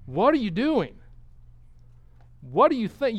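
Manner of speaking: mock the enemy king with scorn; sarcastic. King taunting the outnumbering army, sarcastic and loud. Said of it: "You can almost hear the sarcasm".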